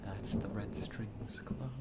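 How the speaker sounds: slow, breathy whisper of the title; slow awed whisper; hushed whisper. Real, not acted. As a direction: whisper it, moved by the ending. Emotional game ending title screen.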